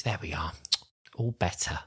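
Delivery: "There we are" said softly, pleased with himself; quietly smug "all better"; soft mock Doctor. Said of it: "he kind of thinks".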